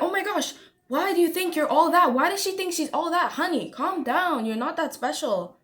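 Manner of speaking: mock put-down, starting high and falling; humbling critics. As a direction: imitate indignant critics cutting someone down to size. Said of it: "They're gonna wanna, like, humble you".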